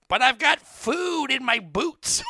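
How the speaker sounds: high, slow imitated wail; mock drunken-woman yell. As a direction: yell it drawn out like an upset puker. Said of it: "You can hear the lady yelling".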